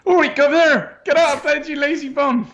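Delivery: very high-pitched mock Cockney; bad Cockney accent. Co-host performing on request to rouse a prisoner, awful Cockney accent. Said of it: "give us a Cockney".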